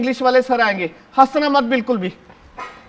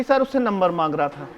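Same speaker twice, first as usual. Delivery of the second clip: lower, laughing through the tattle; 7 semitones lower, 5 dB quieter than usual. Acted. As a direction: giggle while snitching. Snitching, laughing.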